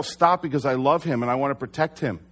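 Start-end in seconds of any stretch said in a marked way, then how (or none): 0.0-0.4 brief raised-voice command, mid-sentence; quick mock shout; retold yell. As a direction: quote your own yell, louder and higher. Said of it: "And so I yell".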